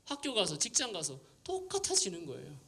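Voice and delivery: mock annoyance at emotional hype; retold irritation. Pastor fuming about teens crying at retreat, imitated. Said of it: "그분이 막 화가 나는 게".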